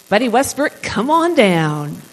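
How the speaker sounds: loud, drawn-out summons to the stage; calling out. Real, not acted. Host calls Buddy up for the next segment, calling out. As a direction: call someone up, loud and stretched at the end.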